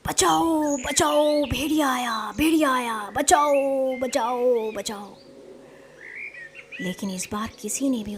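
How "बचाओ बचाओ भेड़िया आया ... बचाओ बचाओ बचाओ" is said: storyteller's mild shout for help; acted cry for help. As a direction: call for rescue, fading away at the end. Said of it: "चरवाहे के चिल्लाने की आवाज़ आई".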